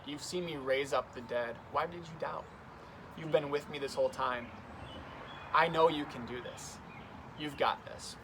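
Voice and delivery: gentle, encouraging reassurance; loving and affectionate. Retold or imitated. Jesus lovingly encouraging Peter after his doubt, tender. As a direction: speak like a proud friend who believes in him. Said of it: "coming from a place of so much love and so much affection".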